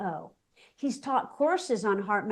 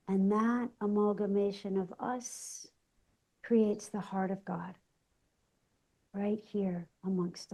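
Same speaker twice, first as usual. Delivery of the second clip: guided meditation prayer. Real, not acted. Host leads listeners in calling in the light, guided meditation prayer. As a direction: lead listeners gently into prayer, softening toward the amen.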